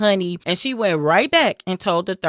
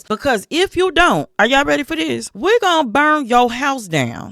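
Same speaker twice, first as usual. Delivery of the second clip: threatening men; 6 semitones higher than usual. Retold or imitated. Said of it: "They tell her".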